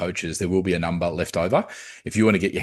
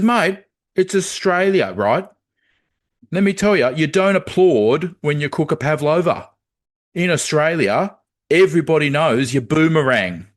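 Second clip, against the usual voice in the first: disappointed; 7 semitones higher, 4 dB louder than usual. Acted. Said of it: "He gets really disappointed".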